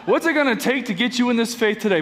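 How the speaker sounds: fast, pushy salesman pitch; used car salesman voice. Shown as a demonstration. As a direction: sell it like a slick car dealer. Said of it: "That's my used car salesman voice".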